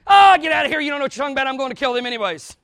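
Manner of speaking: loud angry brush-off, fading to plain; mock David waving her off; a hammed-up angry retort; angry dismissal. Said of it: "He didn't say".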